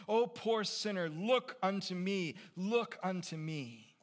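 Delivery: high, loud repeated appeal, falling after each call; fervent preaching. Acted. Preacher calling a poor sinner, loud fervent appeal. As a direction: plead from the pulpit with mounting force.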